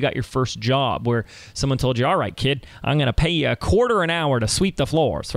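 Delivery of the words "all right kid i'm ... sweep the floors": put-on old-time radio voice. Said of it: "That was my old time, old time radio voice".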